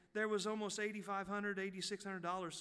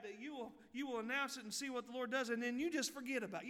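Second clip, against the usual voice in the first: higher-pitched mock self-reproach; self-scolding; 5 semitones higher than usual. Preacher scolding himself for forgetting the announcement, exasperated self-reproach. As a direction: chew yourself out in a raised pitch. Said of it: "I beat myself up all week".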